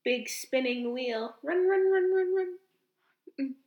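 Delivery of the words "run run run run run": excited. Pretend. Acting hamster on wheel.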